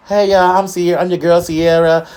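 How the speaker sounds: lightly voiced perky young Sierra; old Sierra voice. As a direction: hype up your own songs like a teen star. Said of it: "Sierra used to talk like this".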